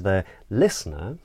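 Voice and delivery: "listener" dips, then rises, unfinished; circumflex inflection. Shown as a demonstration. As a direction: bend "listener" down and up to hold the floor. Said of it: "and I just did it".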